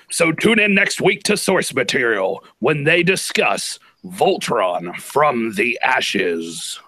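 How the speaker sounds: slow whispered trailer tagline; movie trailer voice. Acted. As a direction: hush the title like a trailer. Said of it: "Take two".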